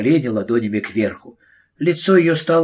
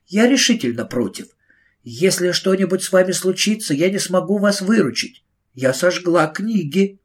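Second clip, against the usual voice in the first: firm teacher; 6 semitones higher than usual. Acted. Miss Price voiced.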